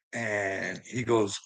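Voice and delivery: normal talking voice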